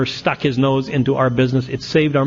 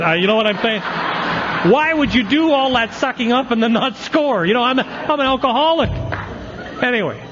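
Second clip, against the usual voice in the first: venting in mock disbelief, half laughing; worked-up indignation; 8 semitones higher than usual. Real, not acted. Telling the AA room about the nosy old-timer, high indignant outburst.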